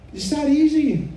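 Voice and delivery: EASY swooping up high, then falling; emphatic reassurance. Real, not acted. Urging someone to simply confess, high and emphatic.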